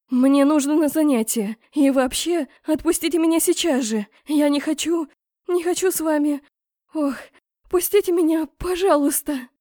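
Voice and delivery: pleading to be let go, loud and high; frantic pleading. A narrator's reading. Heroine begs to be released. (отчаянно, громко и высоко)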